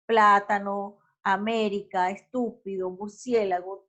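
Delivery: measured list of "Plátano, América, estúpido, murciélago", each stressed third from the end; stress on the antepenultimate syllable. Shown as a demonstration. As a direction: hit TÚ in "estúpido" and CIÉ in "murciélago". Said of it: "todas, absolutamente todas, llevan la marca".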